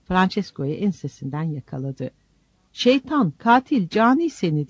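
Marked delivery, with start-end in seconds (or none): 2.7-4.7 high, loud insults hurled; furious shout. A narrator's reading. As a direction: scream the curses at the intruders. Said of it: "diye bağırdı".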